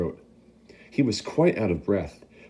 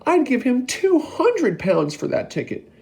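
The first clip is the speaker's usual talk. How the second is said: much higher, louder bidding; shouting; 5 dB louder than usual. Acted. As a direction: outbid him loudly. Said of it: "shouted a woman".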